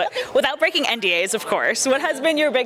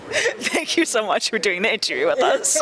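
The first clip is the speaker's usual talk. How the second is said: laughing goodbye; 6 semitones higher, much slower than usual. Real, not acted. Laughing sign-off to guest.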